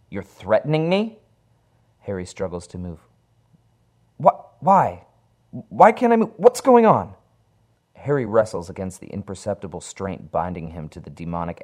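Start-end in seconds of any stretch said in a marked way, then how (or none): 0.1-1.2 alarmed. Acted. Harry realizes the threat. 4.2-7.2 high, loud terrified cries. Acted. Harry trapped on the floor symbol, crying out in terror.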